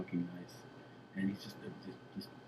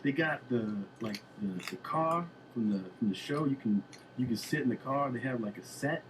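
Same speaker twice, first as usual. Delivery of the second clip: higher, eager superfan gushing; imitating Bruce Bruce; 3 semitones higher, 3 dB louder than usual. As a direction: act out a fan raving about his favorite show. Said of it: "And he's like".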